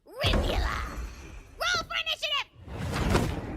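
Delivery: loud, high, slow battle cry; booming game announcer; dramatic announcement. Acted. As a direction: call the fight to arms. Announcing boss entrance.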